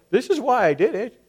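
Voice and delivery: playing the self-justifier listing excuses; a hint of a whining excuse; mock excuse-maker. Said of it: "I can go".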